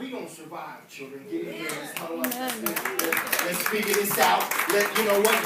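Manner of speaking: a lightly voiced soothing mother; calm mama. A mother gathering her children after tragedy, soothing. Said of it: "mamas be like".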